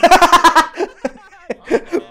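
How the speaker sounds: high loud laughing fit; loud laughter. Real, not acted. Player cracking up after his friend is killed. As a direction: burst out laughing hard.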